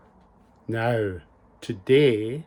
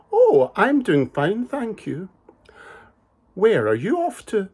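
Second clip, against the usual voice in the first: sly wolf; 8 semitones higher than usual. Acted. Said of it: "a very cunning and a very sly wolf".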